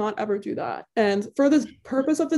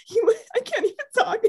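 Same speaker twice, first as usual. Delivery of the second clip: tipsy, laughing through words; 10 semitones higher than usual. Real, not acted. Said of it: "I'm so drunk right now".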